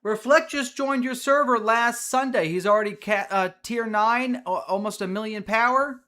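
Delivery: loud, high-pitched excited report; amazed. Real, not acted. Streamer showing off new player's progress, amazed.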